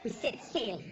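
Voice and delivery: low, grand mock-heroic pirate speech; hammed-up pirate captain rallying the crew; pompous pirate captain. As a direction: declare it like a proud pirate chief rallying his crew.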